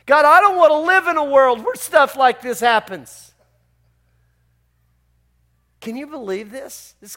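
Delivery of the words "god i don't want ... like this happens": Jonah's complaint. Retold or imitated. Jonah's complaint voiced to God.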